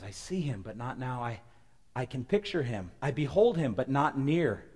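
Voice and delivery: slow, hushed, with pauses; solemn prophecy reading. Acted. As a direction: let each phrase hang.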